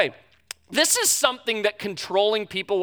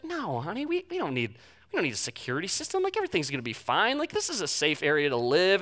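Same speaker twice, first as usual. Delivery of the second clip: soft reassuring husband; 3 semitones lower, 6 dB quieter than usual. Retold or imitated. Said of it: "I was like".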